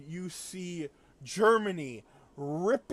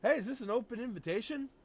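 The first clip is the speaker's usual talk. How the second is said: imitating Canada; 3 semitones higher, faster than usual. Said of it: "Canada shows up and says".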